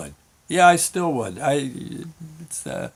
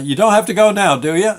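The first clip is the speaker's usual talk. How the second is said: raised-pitch, louder motherly check; leading question; 5 semitones higher, 5 dB louder, faster than usual. Retold or imitated. Mom to freshly bundled kid, leading question. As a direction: ask it daring the kid to say yes.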